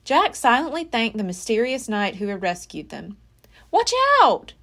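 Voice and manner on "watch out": higher, louder playful warning; teasing sister's warning. Acted. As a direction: tease him with a warning. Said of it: "warned Annie".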